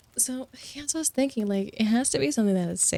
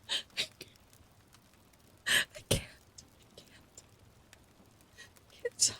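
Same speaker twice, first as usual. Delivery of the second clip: helpless laughter; 8 dB quieter than usual. Real, not acted. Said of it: "I'm dying".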